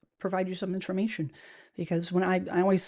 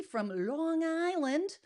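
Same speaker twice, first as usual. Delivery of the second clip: put-on slow, higher, soft Long Island accent; attempted Long Island accent; 7 semitones higher, 5 dB quieter, much slower than usual. Host greeting a Long Island viewer, attempted local accent. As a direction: have a clumsy go at Long Island. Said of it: "I cannot do a Long Island accent".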